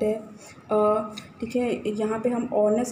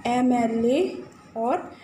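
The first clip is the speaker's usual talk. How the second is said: slow drill reading; slower than usual. Shown as a demonstration. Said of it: "सबसे पहले अवर".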